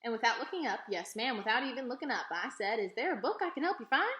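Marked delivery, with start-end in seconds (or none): 2.8-4.1 librarian. A narrator's reading. Librarian greets unseen visitor.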